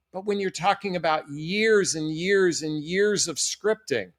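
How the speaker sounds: normal talking voice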